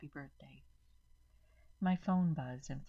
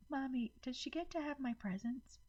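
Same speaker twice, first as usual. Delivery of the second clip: put-on high little-girl voice on the edge of tears; a hurt six-year-old asking her mom; tearful child; 10 semitones higher than usual. A narrator's reading. Emma asking her mommy tearfully, high small voice. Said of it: "tears beginning to well in her eyes".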